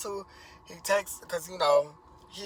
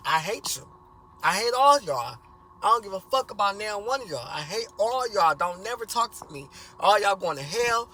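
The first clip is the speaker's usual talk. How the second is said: furious outburst; 3 semitones higher, 5 dB louder than usual. Retold or imitated. Son screaming at his whole family before leaving, furious shout. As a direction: let every bit of hate out, shouting. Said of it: "let it all out".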